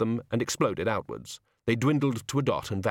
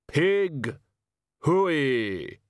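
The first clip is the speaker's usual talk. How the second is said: calling the pigs; 5 semitones higher than usual. Acted. Figure calls the pigs.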